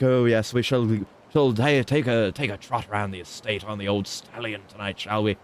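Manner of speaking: a hint of a foppish English aristocrat; lightly put-on upper-class British accent; haughty posh. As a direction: toff proposing a ride on the stallion. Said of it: "The more haughty voice".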